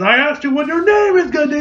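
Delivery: high-pitched acted exasperation; rising, heated mock outburst; angry demand. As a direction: demand it as an imitated furious interrogator. Quoted angry demand for a name.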